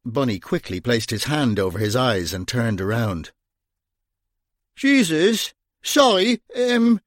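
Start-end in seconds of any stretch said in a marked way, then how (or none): 4.8-7.0 high, startled blurt and fumbling apology; startled gasp. Acted. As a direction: caught off guard, babble it out. Bunny startled by undressing nun.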